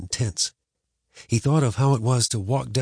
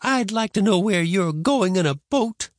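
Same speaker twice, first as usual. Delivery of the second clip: put-on higher, tart old woman; sarcastic grandma; 11 semitones higher, 3 dB louder than usual. A narrator's reading. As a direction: needle him like a granny.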